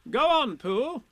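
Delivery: high, loud, brisk urging; bossy Rabbit. A narrator's reading. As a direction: egg them on. Rabbit urges Pooh on.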